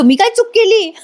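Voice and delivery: high, laughing through the question; laughing protest. Retold or imitated. Husband pleads innocence in the quarrel, laughing. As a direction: ask it while breaking into laughter.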